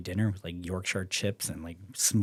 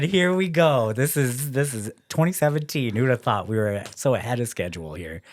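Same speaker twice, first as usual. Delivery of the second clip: loud, much higher, triumphant; hyped announcement; 4 semitones higher, 8 dB louder than usual. Retold or imitated. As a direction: announce it like the winner's coming. Hyped about his chances.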